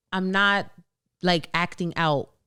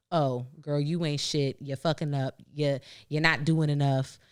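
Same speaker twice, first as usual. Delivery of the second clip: mean inner voice; 5 semitones lower than usual. Retold or imitated. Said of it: "that voice, it's a real voice".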